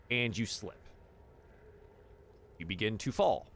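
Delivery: slow, suspenseful scene-setting; storyteller pausing for suspense; game master narration. Acted. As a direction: draw out the mishap in deliberate pieces.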